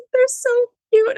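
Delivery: sobbing little daughter. Retold or imitated. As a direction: mimic a weepy child gushing through tears. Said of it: "And I just".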